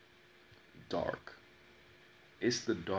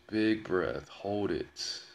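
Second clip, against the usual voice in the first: breathing instruction; 5 dB louder, much slower than usual. Shown as a demonstration. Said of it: "she taught me how to control your breath".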